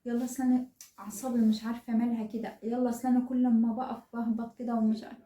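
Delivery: a hint of a lazy, whiny mother; mock the lounging mom's lazy excuses. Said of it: "نايمة على السرير طول النهار". (تقليد خفيف لأم كسولة بتتدلع)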